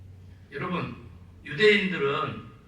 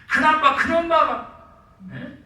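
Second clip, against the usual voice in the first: loud, much higher shout, slow; shouting at the sons; 10 semitones higher, 11 dB louder than usual. Retold or imitated. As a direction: yell it out of nowhere to the boys. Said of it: "내가 그 소리 친 거지". (혼내다가 아이들에게 뜬금없이 소리치는 아빠)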